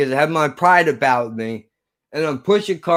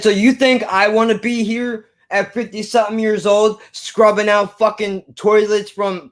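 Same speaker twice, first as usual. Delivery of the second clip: high, worked-up imitation of the boss; indignant rant; 5 semitones higher than usual. Older manager berating fifteen-year-old kid, indignant imitated rant. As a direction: act out an affronted, higher-pitched tirade.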